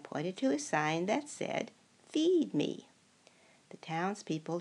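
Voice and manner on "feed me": loud, high, insistent "Feed me"; loud demand. Acted. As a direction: bark it out like a hungry monster. Sign voiced as a demand.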